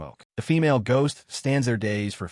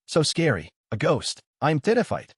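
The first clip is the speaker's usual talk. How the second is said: terrified; 5 semitones higher than usual. Acted. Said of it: "screams in terror".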